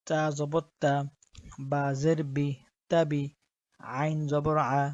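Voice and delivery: measured, even-toned Quranic spelling drill; spelling-drill recitation. Shown as a demonstration. Teacher spelling Arabic words for learners, measured recitation. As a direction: spell out each letter and vowel, then join them steadily.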